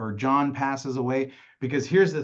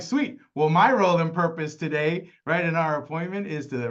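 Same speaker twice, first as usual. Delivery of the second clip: upbeat; 4 semitones higher than usual. Retold or imitated. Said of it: "I'm like".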